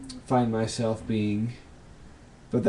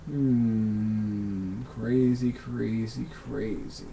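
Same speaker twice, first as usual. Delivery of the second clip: fading away, each repeat softer; musing to himself; 6 dB quieter, much slower than usual. Real, not acted. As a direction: trail off to near silence while pondering. Musing to himself over a question.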